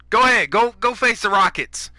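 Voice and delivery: loud taunting go ahead, falling hard; taunting dare. Real, not acted. Gamer taunting viewers, loud mocking dare.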